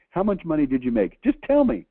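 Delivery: pressing hard, voice climbing high; demanding. Retold or imitated. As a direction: insist he answer now. Pressing the visitor for numbers.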